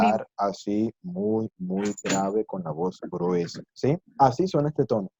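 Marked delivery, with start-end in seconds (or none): 0.0-3.6 slow, drawn-out mock-deep voice; thick deep voice. Shown as a demonstration. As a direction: put on a very deep voice. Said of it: "poner la voz muy grave".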